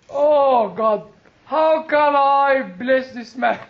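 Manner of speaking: slow, imploring retold plea to God; lightly acted trembling disbelief; trembling prayer. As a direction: act out an overwhelmed prayer, drawing the words out. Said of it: "You know, trembling".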